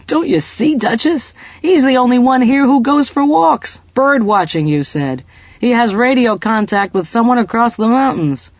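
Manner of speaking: bursting with the joke of it; excited. Acted. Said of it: "eyes still brimming with laughter".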